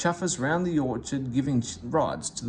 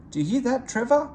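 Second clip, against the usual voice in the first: higher, louder excited call; excited cry; 10 semitones higher, 5 dB louder, faster than usual. A narrator's reading. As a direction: cry out the good news. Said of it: "cried Jem".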